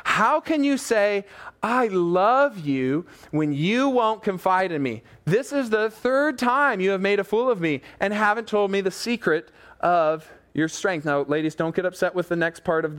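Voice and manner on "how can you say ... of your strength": higher, drawn-out annoyed reproach; with an edge. Retold or imitated. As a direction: play a fed-up woman confronting her lover. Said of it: "says it kinda with an edge".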